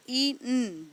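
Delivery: each letter sound said apart. Shown as a demonstration. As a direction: split the word into its separate sounds. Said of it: "बीन में ब".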